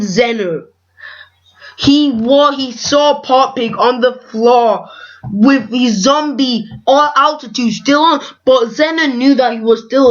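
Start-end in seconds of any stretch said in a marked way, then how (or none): 1.8-8.2 halting, tripping over words; stammering. Real, not acted. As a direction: stumble and restart mid-word. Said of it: "if you think I'm stammering".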